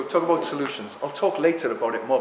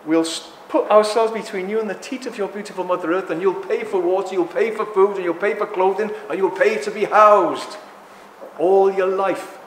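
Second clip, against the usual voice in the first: smug smart aleck; 2 semitones higher, 4 dB louder than usual. Retold or imitated. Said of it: "some smart aleck has said".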